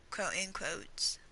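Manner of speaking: unvoiced slow whisper; whispered aside. Real, not acted. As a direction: whisper the air quotes slowly. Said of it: "Well, found".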